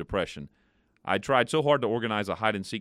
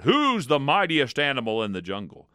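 loud, raised lion's roar; 5 semitones higher, 4 dB louder than usual. Acted. Lion roaring at the monkey, loud and proud. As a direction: boom it out like a proud lion king.

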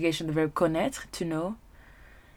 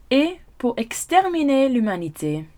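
emphatic lyric reading; 6 semitones higher, 4 dB louder than usual. Shown as a demonstration. Dramatic lyric read.

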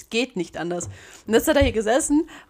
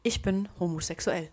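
mock Alice Weidel quote; 9 dB quieter than usual. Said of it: "Alice Weidel ist für mich immer nur diese, dieser Satz".

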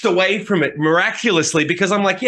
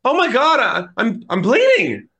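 put-on panicked teen; 7 semitones higher than usual. Teen panics at cut hand.

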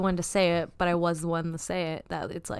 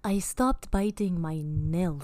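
slow and deliberate; slower than usual. Pretend. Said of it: "I just wanna get it on record".

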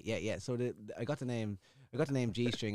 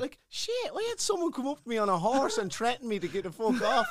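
loud raised retold threat; mock angry shout; 12 semitones higher, 7 dB louder than usual. Man on a horse telling him to clear off, loud. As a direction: bark it out like the angry rider.

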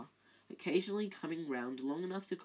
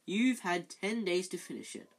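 severe; 4 semitones higher, 3 dB louder than usual. Acted. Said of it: "suddenly severe".

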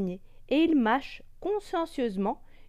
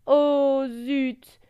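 hiccuping; 5 semitones higher, 9 dB louder than usual. Acted. Monkey now catches hiccup.

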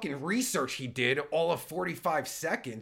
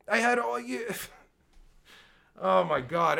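usual speaking voice

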